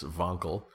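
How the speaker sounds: "Wankel" said "Vahnkel"; German pronunciation. Shown as a demonstration. Podcaster names the inventor, "Wankel" with German V. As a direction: open the German name "Wankel" with a V. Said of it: "It's a German name".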